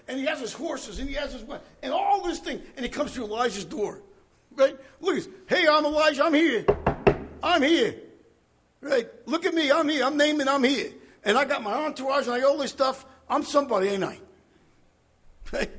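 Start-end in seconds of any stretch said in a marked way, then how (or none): 5.5-14.2 louder, higher, puffed-up show-off; boastful Naaman. Acted. Preacher voicing Naaman bragging at the prophet's door, loud and boastful. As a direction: strut and announce yourself at the door.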